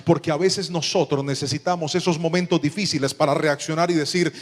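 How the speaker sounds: ordinary delivery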